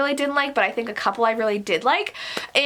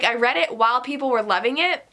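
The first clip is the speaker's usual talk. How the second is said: ordinary talk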